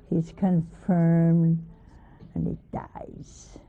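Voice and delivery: ordinary talk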